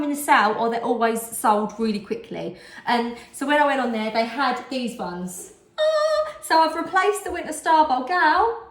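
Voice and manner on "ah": excited squeal. Real, not acted. Excited about new bowls.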